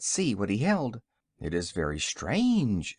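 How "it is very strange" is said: low, slow and sober. A narrator's reading. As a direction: say it gravely and slowly. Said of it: "said he soberly".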